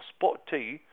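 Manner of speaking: jokey British catchphrase; British accent. Shown as a demonstration. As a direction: tack it on in mock British. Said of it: "say spot a T at the end and turn it into British".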